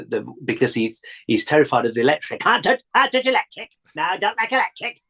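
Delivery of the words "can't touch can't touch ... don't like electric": high, simple scarecrow voice, pitch way up; frightened scarecrow. Retold or imitated. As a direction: whimper like a scared scarecrow refusing the wire. Wurzel afraid of electric.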